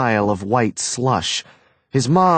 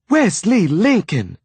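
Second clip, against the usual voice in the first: calling out; 9 semitones higher than usual. A narrator's reading. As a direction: call him back sharply. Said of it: "she called after him".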